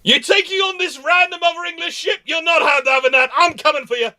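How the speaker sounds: high mock roar for his godson; hammed-up charge to defend the prince; protective battle shout. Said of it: "And then he just goes".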